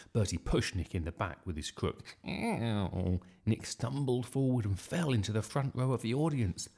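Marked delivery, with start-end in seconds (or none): 2.3-3.2 drawn-out, complaining "ow"; pained "ow". A narrator's reading. Nick shoved in the back, pained ow. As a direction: let the yelp stretch out.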